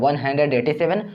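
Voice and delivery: "थ्री एट फ़ाइव" spaced out as separate digits; whole number, then "थ्री", "एट", "फ़ाइव" singly. Shown as a demonstration. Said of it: "एक एक digit पढ़िएगा". ("थ्री एट फ़ाइव" एक-एक अंक अलग करके)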